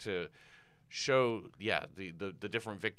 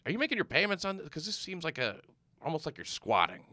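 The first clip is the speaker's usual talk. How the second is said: incredulous question; 7 semitones higher than usual. Retold or imitated. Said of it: "you go".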